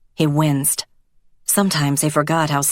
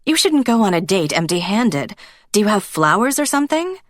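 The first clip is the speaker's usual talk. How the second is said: lightly voiced eager woman, higher and quicker at the end; a hint of a fussing wife, rising fast; 6 semitones higher than usual. Elsa urging Zoltan to bring a gift, higher and fast.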